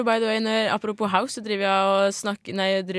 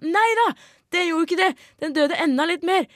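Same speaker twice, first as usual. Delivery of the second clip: high-pitched shocked exclamation; surprised outburst; 8 semitones higher than usual. Real, not acted. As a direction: cry it out in disbelief. Overrasket utbrudd om plottet. (høyt, overrasket utrop)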